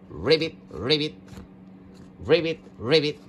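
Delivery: low paired ribbits, each rising; frog croaking. Pretend. Toy frog among the pool animals, low playful croaking.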